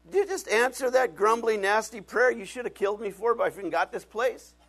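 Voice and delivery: can't believe the prayer got answered; stunned disbelief. Retold or imitated. Pastor retells his amazed outburst to God, loud and high.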